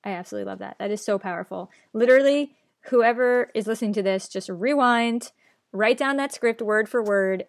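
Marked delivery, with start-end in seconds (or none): 1.9-7.4 excited urging. Real, not acted. Host urging listeners to rewind and copy the script, excited. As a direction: fire up the listeners to replay it.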